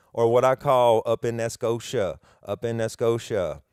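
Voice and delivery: up in that Scotia, drawn in New Orleans style; New Orleans accent. Shown as a demonstration. Host jokes on Nova Scotia in his New Orleans way. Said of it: "that's some New Orleans".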